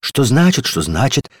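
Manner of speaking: teasing parrot of his words; light mock echo; mocking mimicry. A narrator's reading. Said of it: "передразнила его дверная ручка".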